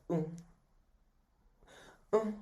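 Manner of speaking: brief wordless "mm" noises; imitated short hums. Recapper showing the noise she made, imitated hums. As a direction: mimic her little closed-mouth grunts. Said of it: "she goes like this".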